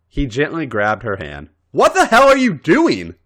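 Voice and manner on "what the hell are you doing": loud, high slurred outburst; drunken slur. Acted. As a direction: slur it like you've had eight beers. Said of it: "she slurred".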